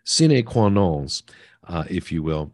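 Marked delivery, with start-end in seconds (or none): 0.0-1.2 Latin phrase said with a French accent; slow French-style pronunciation of Latin. Real, not acted. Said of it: "pronounce Latin with a French accent".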